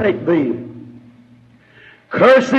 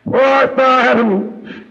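calling Adam; 3 semitones higher than usual. Acted. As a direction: stretch the call out like a voice from heaven. God calling Adam today.

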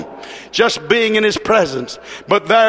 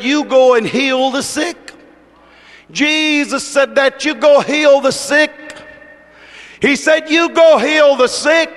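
raised, insistent preacher's command; preached command; 4 semitones higher than usual. Retold or imitated. Preacher voicing Jesus commissioning the ministry, insistent command. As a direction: drive the order home at a higher pitch.

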